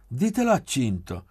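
loud high laughing outburst; loud laughing blurt; bursting into laughter. A narrator's reading. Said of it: "sbottò a ridere Davide".

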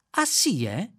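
piqued, rising sharply; a touched-nerve huff; miffed. A narrator's reading. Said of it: "Si indispettì il computer". (computer offeso, tono piccato)

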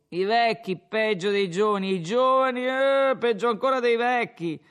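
put-on a drunk lecturing the innkeeper, pleased with himself; slurred tavern speech, rising as he goes; drunken Renzo.

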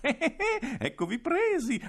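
strillo acutissimo tra le risate, lento; strillando ridendo. Acted. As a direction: trionfo malvagio ridendo. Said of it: "ridendo strillò". (il direttore intrappola i bambini, strilla ridendo)

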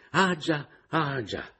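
put-on high old man mumbling as he retreats; fussy old man backing away; high, muttered ah già, ah già; old landlord.

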